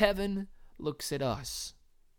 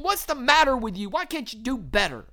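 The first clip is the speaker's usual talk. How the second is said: mild condemning; 6 semitones higher, 4 dB louder than usual. Retold or imitated. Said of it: "condemning us and saying".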